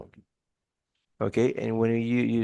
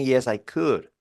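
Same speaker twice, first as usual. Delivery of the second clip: a grudging, sarcastic yes; 4 semitones higher, 3 dB louder than usual. Shown as a demonstration. Teacher demonstrating a wrong answer to a request: sarcastic. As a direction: agree with an ironic edge. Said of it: "sort of sarcastic".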